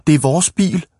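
put-on high, indignant little-boy cry; shouted protest. A narrator's reading. Small boys defend their car to Ivan, shouting. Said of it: "råbte de to små drenge".

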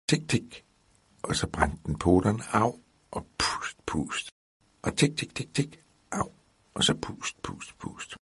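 whispered tiny mouse ticking, a high ouch; mouse sounds. Acted. Brother retelling the mouse story, whispered ticking and yelps. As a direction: breathe it out like a mouse blowing on its paws. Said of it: "lille mus".

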